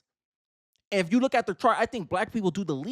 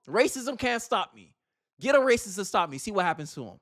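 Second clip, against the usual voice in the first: slower, steady and defiant; a defiant boast. Retold or imitated. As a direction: dare them, taking your time. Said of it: "I go".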